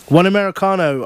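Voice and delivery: understated barista call in a read story. A narrator's reading. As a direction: call the order out lightly. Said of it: "I call out".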